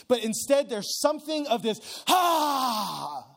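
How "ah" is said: groan. Retold or imitated. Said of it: "inside of Jesus that's saying".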